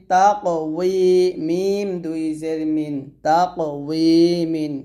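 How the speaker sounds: slow sing-song letter-by-letter recital; spelling drill. Shown as a demonstration. Teacher spelling Arabic syllables aloud for students, sing-song drill. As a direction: chant each letter and vowel mark for the class.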